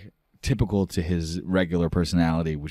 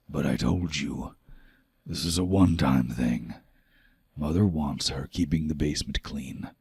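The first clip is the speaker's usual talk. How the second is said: gruff father; 3 semitones lower than usual. Acted. Stern father Varg speaks.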